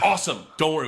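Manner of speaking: retold burst of enthusiasm; thrilled. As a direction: imitate gangsters who are through the roof. Thrilled gangsters, through the roof.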